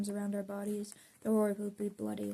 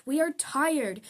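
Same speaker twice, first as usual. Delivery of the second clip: louder, higher protest cry; rally shout; 5 semitones higher, 6 dB louder, slower than usual. Acted. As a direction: call it out to the crowd. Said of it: "take my hand and shout".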